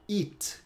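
"it" with a clean stopped T, no hiss; mute T. Shown as a demonstration. Teacher models English "it", T kept mute. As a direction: end "it" on a silent, unreleased T. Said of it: "o T fica mudo".

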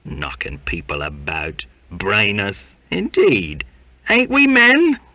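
high, loud Cockney rabble-rousing; loud indignant Cockney tirade; indignant rant. Acted. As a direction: whip up the crew in outrage. His altruistic indignation blazed.

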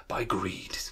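"greed" drawn out slowly; relished stress on greed. Real, not acted. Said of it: "I like the way I said greed there".

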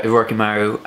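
"Rokimaru" said as rocky-MA-roo; correct username pronunciation. Shown as a demonstration. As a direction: give "Rokimaru" its clear middle "ma". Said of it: "that's how you pronounce my username".

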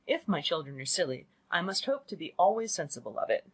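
lightly voiced, affronted mother; a protective wife objecting, pitch swinging upward; indignant mother. Mother defending her children to her husband, mildly indignant.

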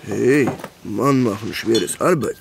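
slow, lumbering caveman talk; joking caveman voice to his girlfriend; mock caveman. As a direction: play a dumb brute for a laugh. Joking caveman broken German.

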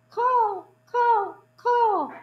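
high, loud cawing cries; croaking crows. Acted. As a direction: caw it out like crows calling. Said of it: "croaked the crows".

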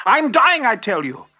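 high, loud wail that drops away; melodramatic shout. A narrator's reading. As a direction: cry out like a desperate trapped fox. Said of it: "shouted the fox".

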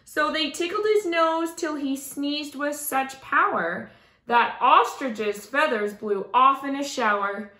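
lilting rhyming storybook reading; story narration. A narrator's reading. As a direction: read it aloud to children with expressive rhythm. Reads a rhyming picture book aloud.

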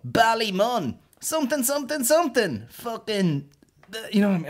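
high, loud sneering impression of a Dublin comic; high, loud mock southern patter. Mocking Dublin comedians' sets.

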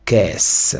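"кес" as French qu'est-ce, one syllable; careful model of "кес" ending in s; French reading. Shown as a demonstration. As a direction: sound out "кес" for learners. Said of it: "маємо".

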